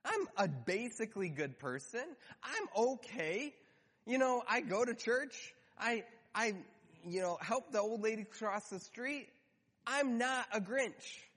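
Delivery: defensive churchgoer. Pretend. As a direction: lightly play someone insisting they're fine. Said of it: "you're thinking".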